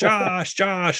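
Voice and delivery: high, drawn-out mock calling; Blair Witch callout. Imitating the movie's ending for the co-host, high drawn-out calls. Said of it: "they're doing the".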